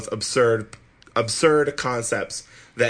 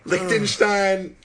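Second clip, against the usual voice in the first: slow drawn-out; 8 semitones higher, much slower than usual. Acted. Drawn-out mock pondering.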